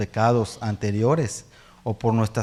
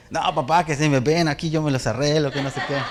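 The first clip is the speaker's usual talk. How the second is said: put-on brushing it off like a cocky teen; cocky son; 2 semitones higher than usual. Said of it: "es como yo".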